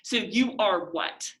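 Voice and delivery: "you are what" slowly, as a statement; "you are what" with a falling, unquestioning end; not as a question. Shown as a demonstration. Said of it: "trying not to say it as a question".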